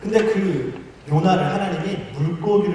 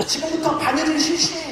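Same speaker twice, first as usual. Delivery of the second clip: shouting drill instructor; 12 semitones higher than usual. Retold or imitated. Drill instructor orders the recruits to sew, high mock shout. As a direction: imitate an instructor calling out an order. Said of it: "조교가 이렇게 소리치는 거예요".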